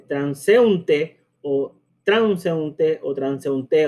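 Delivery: transeúnte tried slowly with the stress shifting each time; slow, misplaced stresses on transeúnte; wrong stresses. Shown as a demonstration. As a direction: mispronounce transeúnte three ways, eu merged. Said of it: "no se podría pronunciar la palabra como es".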